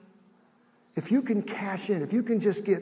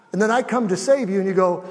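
ordinary talk

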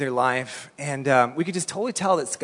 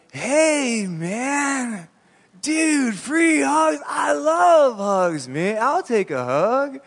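stoned hippie voice; 8 semitones higher, much slower than usual. Retold or imitated. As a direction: play the mellow festival dude begging for a hug. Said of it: "one person goes".

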